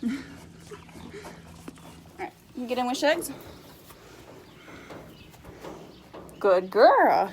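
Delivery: talking to a horse. Real, not acted. Coaxing animal into trailer.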